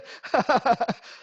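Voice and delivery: real high-pitched burst of laughter; amused laugh. Real, not acted. Lecturer amused by the copilot's roundabout warning, laughing.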